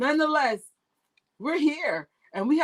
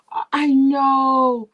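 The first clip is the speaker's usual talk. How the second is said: tearful; 7 semitones higher, 6 dB louder, much slower than usual. Real, not acted. Emotional about missing UK trip.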